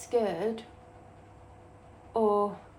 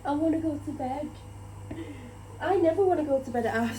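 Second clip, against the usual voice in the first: tired whine; 4 semitones higher than usual. Real, not acted. Exhausted vlogger longing for bed, tired whine. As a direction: sound done in and ready for bed. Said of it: "I'm just so tired".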